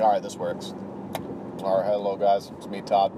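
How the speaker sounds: a hint of a nasally, food-munching nerd; Todd. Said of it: "it's that kind of voice".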